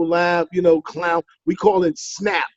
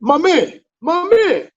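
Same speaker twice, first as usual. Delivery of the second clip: panicked my man; 9 semitones higher, 4 dB louder, slower than usual. Retold or imitated. Startled by wife in bed.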